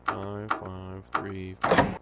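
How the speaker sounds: each number drawn out; slow deliberate. Shown as a demonstration. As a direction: spell the code out slowly. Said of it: "repeating code slowly".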